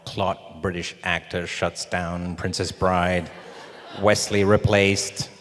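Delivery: slow, measured headline reading; mock headline. Actor imagining his firing in print, slow mock headline. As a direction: spell out the imagined headlines slowly. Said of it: "I could see the headlines now".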